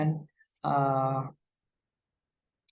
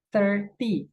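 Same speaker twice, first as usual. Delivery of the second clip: thirty stressed on thir, falling off; 4 semitones higher than usual. Shown as a demonstration. Teacher contrasts it with thirteen, stress on thir. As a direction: punch thir in thirty, teen sound absent. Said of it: "penekanannya di ter".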